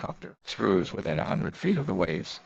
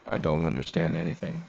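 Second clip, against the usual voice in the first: decisive; 6 semitones lower than usual. Acted. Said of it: "she said with decision".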